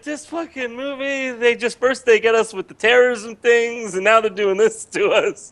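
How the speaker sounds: put-on high, slow, loud Persian accent rant; Persian family rant. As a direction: protest in an outraged Persian accent. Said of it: "my whole family was just like".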